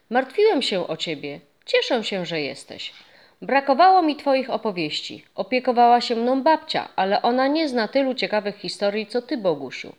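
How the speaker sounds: put-on a glad boy, chatty and warm; eager boy. Boy telling the ghost he missed his stories, eager and young.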